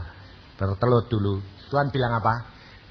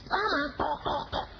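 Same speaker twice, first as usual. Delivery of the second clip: imitated knocking; 7 semitones higher, 9 dB quieter than usual. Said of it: "saya ketok".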